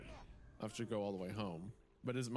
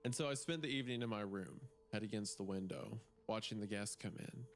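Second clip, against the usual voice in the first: story narration. Acted. S0 reads the story aloud.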